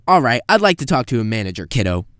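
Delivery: quick, loud, entitled; entitled demand. Retold or imitated. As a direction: demand the manager, talking down. Customer demanding manager.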